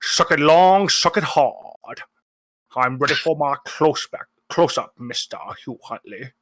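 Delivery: lightly voiced Scottish film star; Sean Connery voice. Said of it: "Say hi to Sean Connery for me".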